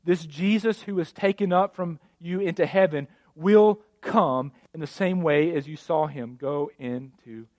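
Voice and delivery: measured, solemn Bible reading; scripture reading. Acted. Pastor reading Acts to church, measured reading. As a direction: read the passage steadily to the congregation.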